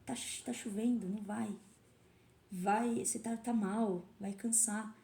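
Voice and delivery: softly voiced inner doubt; discouraging inner voice. Inner voice urging the athlete to skip training, softly discouraging. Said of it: "Então é aquela voz assim".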